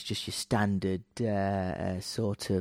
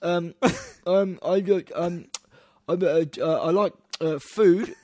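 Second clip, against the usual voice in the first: higher, hesitant mock voice fumbling for an answer; flustered traveller; 6 semitones higher, 5 dB louder than usual. Food historian at customs, imitated with a higher flustered voice. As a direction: stammer it out, unsure of your own job title. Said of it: "She's like".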